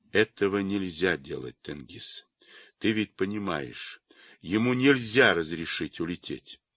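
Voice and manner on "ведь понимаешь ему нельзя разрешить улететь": ordinary delivery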